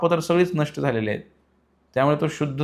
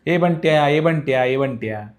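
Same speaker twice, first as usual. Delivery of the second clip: mock hail to an old friend, raised then easing; calling out; 2 semitones higher, 3 dB louder than usual. Village friend hailing the collector outside his office, calling out. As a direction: act out calling someone over, mildly louder. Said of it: "तो हाक मारतो".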